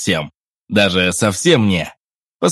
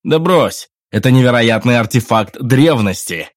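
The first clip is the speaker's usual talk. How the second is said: eager; 4 semitones higher, 8 dB louder than usual. A narrator's reading. Henry's voice.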